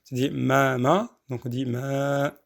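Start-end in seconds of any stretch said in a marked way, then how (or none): 0.3-1.2 ma said as two even beats; two counts. Shown as a demonstration. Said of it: "deux fois la lettre". 1.6-2.3 ma held as one long vowel; two-count madd. Shown as a demonstration. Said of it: "c'est juste, euh, une seconde".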